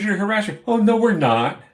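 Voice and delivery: high, loud quoted back-and-forth; replaying the argument with the cops, shouting; heated retort. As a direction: fling the accusation, then mock their denial. Quoting argument with police.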